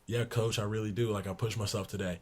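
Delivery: soft, subdued answer to the coach; meek reply. Retold or imitated. Young player answering his coach, soft and subdued. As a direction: answer small, trying to please. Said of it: "I said".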